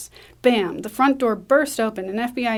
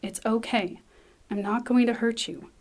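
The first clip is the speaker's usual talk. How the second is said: gently reassuring, a little quieter; softened, calming voice; 3 dB quieter than usual. Acted. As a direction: soothe a scared child. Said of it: "softens her voice".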